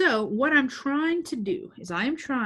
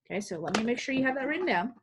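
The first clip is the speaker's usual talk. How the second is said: talking after a slurp; words right after a sip; slurping drink; 2 semitones higher than usual. Real, not acted. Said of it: "sorry for that slurping".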